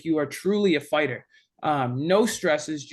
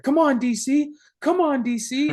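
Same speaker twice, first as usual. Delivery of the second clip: imitated yelling; 8 semitones higher than usual. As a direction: imitate a coach hyping himself up. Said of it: "he's, like, yelling".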